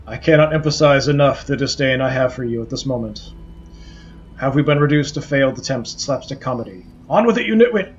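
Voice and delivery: haughty skull, building to a snap; a sneering skull losing patience; disdainful scolding. Acted.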